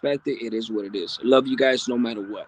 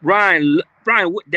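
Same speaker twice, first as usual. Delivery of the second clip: excited greeting; 3 semitones higher, 10 dB louder, slower than usual. Real, not acted. Greeting a chat viewer.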